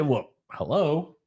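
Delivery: slow, drawn-out British hello; a posh-sounding British greeting, slowed down; British accent. Pretend. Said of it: "British Australian".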